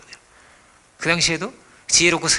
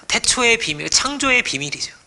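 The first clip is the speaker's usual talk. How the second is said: higher, slower proclamation; fervent proclamation; 7 semitones higher, slower than usual. Real, not acted. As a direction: declare it with awe. Preaching emphasis.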